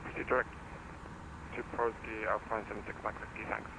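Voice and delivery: over a pilot headset. Real, not acted. Pilot reading back over radio.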